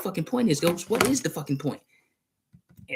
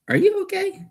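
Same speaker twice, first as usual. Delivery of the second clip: whisper; 4 dB louder than usual. Real, not acted. Asking Ghost if he's okay, whispered. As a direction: breathe the question out in a whisper. Checking on Ghost after odd sounds.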